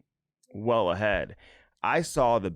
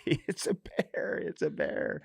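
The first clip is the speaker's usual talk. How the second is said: imitating panicked whisper; 8 semitones higher, 5 dB quieter, slower than usual. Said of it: "I hear Ivy say".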